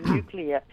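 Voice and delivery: "nuclear" said as NOO-klee-uh; correct pronunciation. Shown as a demonstration. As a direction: say "nuclear" with a clear klee in the middle. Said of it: "he couldn't pronounce it properly".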